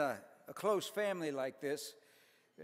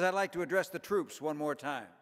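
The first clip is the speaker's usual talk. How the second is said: puffed-up general; 5 dB louder than usual. Acted. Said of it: "He sucks himself up to his full height".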